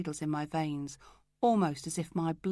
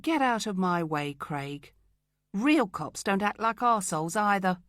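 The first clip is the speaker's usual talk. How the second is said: louder, firm and cold; angry brush-off; 3 semitones higher, 4 dB louder than usual. Acted. Pushing past Craig, angry and louder. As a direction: shove past him with contempt.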